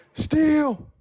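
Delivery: mimicking the boyfriend shouting up to her; mock yelled call. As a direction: sing it out like a fake-cheerful buddy. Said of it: "he yells at me".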